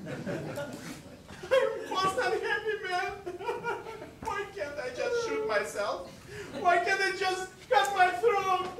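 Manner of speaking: hammed-up despair. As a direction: wail comically at fate. Father despairs, comically.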